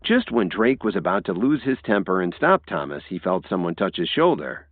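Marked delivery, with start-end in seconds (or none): none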